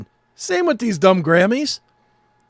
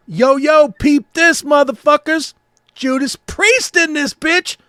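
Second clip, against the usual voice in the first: hype announcer; 5 semitones higher, 3 dB louder than usual. Pretend.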